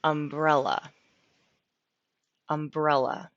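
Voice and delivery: "Umbrella" stressed on brel, repeated for learners. Shown as a demonstration. Teacher repeating "Umbrella" so students hear the stressed E. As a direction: press the middle syllable of "Umbrella". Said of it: "with the accent on the E".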